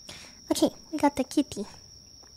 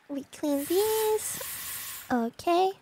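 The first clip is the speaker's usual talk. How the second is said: quiet focus; 8 dB quieter, slower than usual. Real, not acted. Quiet careful cleaning.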